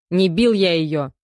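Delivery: loud, slow stubborn denial. Acted. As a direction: dig in and deny it. Detainee denies beating. (упрямо, громко)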